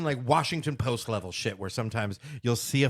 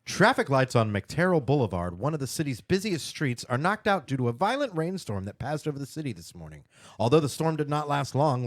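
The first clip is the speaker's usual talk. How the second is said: news read. Shown as a demonstration. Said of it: "you wanna do this one".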